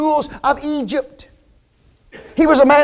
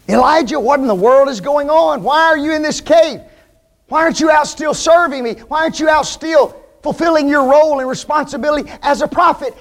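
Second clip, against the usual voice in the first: higher, quick questioning; God questioning; 4 semitones higher than usual. Acted. God asking Elijah why he hides, quick and pressing. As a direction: press him like a demanding God. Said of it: "God finds Elijah".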